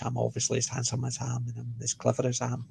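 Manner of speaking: deadpan joke. Real, not acted. Joke about being Scottish.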